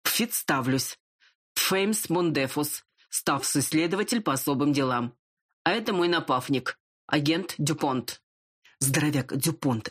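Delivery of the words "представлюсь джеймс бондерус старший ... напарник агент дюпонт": lisping voice. Acted. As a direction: lisp through the names. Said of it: "шепелявый".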